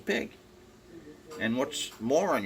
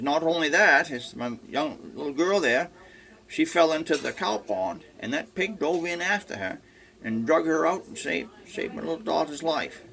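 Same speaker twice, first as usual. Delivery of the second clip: higher and louder, bragging eagerly; proud excited farmer; 8 semitones higher, 5 dB louder than usual. Retold or imitated. Farmer boasting to the salesman about his pig, excited and louder. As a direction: gush about the heroic pig.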